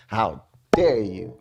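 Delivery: slow mimicked rebuke, leaning on "dare"; punched DARE. Vlogger showing how she tapped the phone, slow punched "dare". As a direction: draw out "How", then land on "dare". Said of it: "that, that sound made that".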